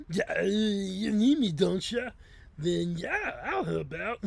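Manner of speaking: loud, high character voice ending in a laugh; Shady. Acted. Friend agreeing to help out, loud high put-on voice. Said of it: "right, Shady?".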